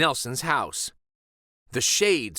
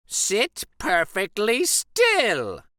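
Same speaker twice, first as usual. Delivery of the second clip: stern witch teacher; 9 semitones higher, 4 dB louder, slower than usual. A narrator's reading. Miss Swamp orders stillness.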